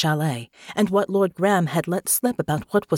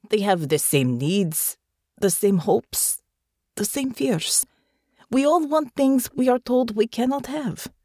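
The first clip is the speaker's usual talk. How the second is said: rising high, impassioned; passionate plea; 7 semitones higher than usual. Acted. Natasha insisting to the captain, high and impassioned. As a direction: pour it out, voice climbing with conviction.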